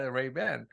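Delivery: Ray-Ban with a full "ban"; American pronunciation. Shown as a demonstration. Conceding the American name after looking it up, American pronunciation. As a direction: say Ray-Ban with a clear "a" as in "man". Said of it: "You needed the American".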